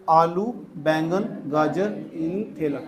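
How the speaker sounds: slow, drawn-out list for memorising; mnemonic recital. Shown as a demonstration. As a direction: recite it slowly, word by word. Teacher repeats the memory trick. (याद कराने के लिए धीरे-धीरे बोलते हुए)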